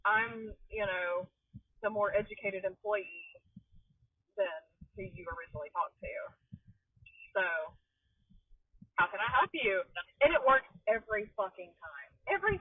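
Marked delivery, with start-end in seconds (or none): 0.0-9.8 customer service voice. Retold or imitated. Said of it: "and I'm like".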